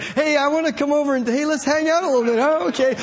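a slick friend easing into a sales pitch; slick salesman. Retold or imitated. Preacher imitating a smooth recruiter, slick and quick. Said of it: "it's usually more slick than that".

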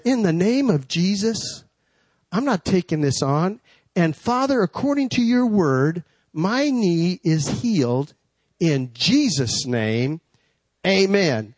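measured declaration, stretched at the close; earnest retold healing prayer; re-enacted prayer. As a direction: pray it out in deliberate separate phrases.

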